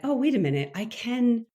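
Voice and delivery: normal talking voice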